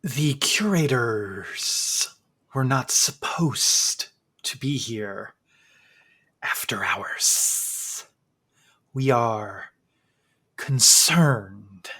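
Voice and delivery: very slow, soft, otherworldly voice; eerie museum figure. Acted. Strange figure warning the intruding adventurers, slow and eerie. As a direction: drag each word out, uncanny and hushed.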